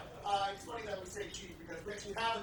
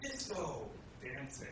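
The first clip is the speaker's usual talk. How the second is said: one word at a time, halting; staccato; much slower than usual. Real, not acted. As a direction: drop each word separately, with pauses. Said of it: "one word at a time".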